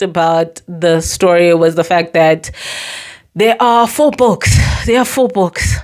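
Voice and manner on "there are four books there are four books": fake-cheerful sarcastic delight. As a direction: say it with heavy sarcasm. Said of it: "I'm being sarcastic as hell".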